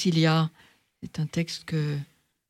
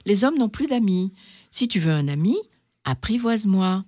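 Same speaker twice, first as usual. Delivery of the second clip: apprivoise-moi said aloud, fully voiced; a firm, open invitation; lightly voiced fox.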